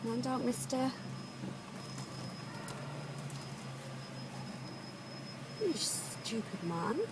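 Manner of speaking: muttered road rage. Real, not acted. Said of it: "You see a bit of road rage".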